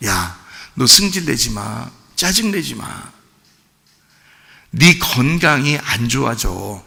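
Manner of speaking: God's loving admonition. Retold or imitated. God telling a loved one to mind their health, softly admonishing. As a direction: gently counsel as a caring God would, unhurried and hushed. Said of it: "하나님 우리를 너무 사랑하시니까".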